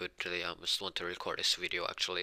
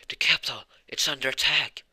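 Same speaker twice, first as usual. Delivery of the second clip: loud, urgent, higher alarm call; alarmed shout; 6 semitones higher, 7 dB louder than usual. Acted. Messenger running in to warn the party, loud alarm. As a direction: burst in raising the alarm.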